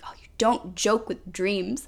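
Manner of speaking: slow, imitated Romanian accent. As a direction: imitate a Romanian friend's accented warning, slowly. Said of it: "thick Romanian accent".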